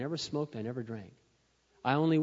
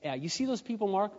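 loud, high fatherly warning; father scaring his son off bars, rising to a shout; preacher dad warning; 4 semitones higher, 8 dB louder than usual. Retold or imitated. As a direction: build to a booming lecture as dad. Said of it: "And he'd sit and go".

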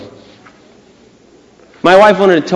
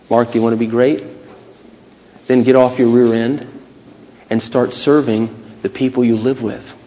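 little voice of God; 4 semitones lower, 4 dB quieter than usual. Acted. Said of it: "the little voice said to me".

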